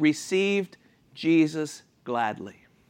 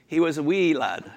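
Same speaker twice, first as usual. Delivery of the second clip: put-on Scottish accent. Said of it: "say it in Scottish".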